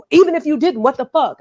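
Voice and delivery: mildly heated quoted protest; retold pissed-off retort. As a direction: imitate an annoyed man's comeback. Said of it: "like, pissed".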